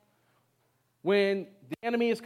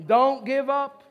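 louder, higher, emphatic rallying cry; like you mean it; 4 semitones higher, 7 dB louder, much slower than usual. Shown as a demonstration. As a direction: belt it out with full conviction. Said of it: "say it like you mean it".

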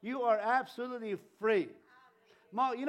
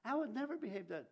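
judgmental tut; 4 semitones higher, 8 dB quieter, faster than usual. Retold or imitated. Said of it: "and say".

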